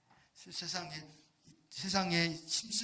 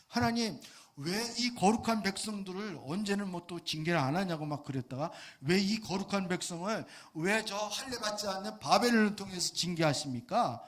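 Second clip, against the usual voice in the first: angry protest; 3 semitones higher, 4 dB louder than usual. Retold or imitated. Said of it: "또 막 화를 내는 거예요".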